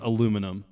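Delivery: aluminum as uh-LOO-min-um; deliberate pronunciation. Shown as a demonstration. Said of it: "That's how it's pronounced".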